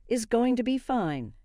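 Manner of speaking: deliberate, insistent stress on each word; each word emphasized. Acted. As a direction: stamp every word of "is going to be fine". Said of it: "emphasizing each word".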